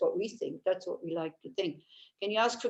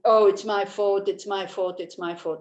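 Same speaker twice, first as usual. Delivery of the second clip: self-blaming whine; 5 dB louder than usual. Shown as a demonstration. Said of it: "Not like this".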